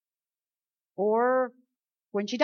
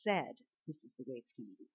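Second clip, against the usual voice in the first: put-on toddler's declaration; 6 semitones lower, 4 dB quieter than usual. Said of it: "just like little Brielle".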